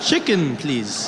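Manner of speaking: mock-frightened chicken order, dropping in pitch; petrified. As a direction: blurt the order in pretend fright. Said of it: "You looked petrified".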